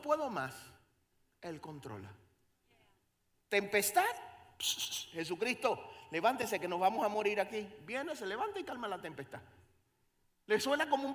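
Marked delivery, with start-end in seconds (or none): 3.5-7.7 louder frightened pleas; mock panic in the storm; panicked disciples. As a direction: cry out to wake Jesus.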